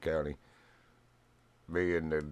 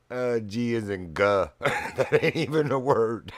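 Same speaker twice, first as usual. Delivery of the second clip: slow, laughing disbelief; 4 semitones higher, 4 dB louder than usual. Real, not acted. Recalling the rude call, slow laughing. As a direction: chuckle through it, slowly.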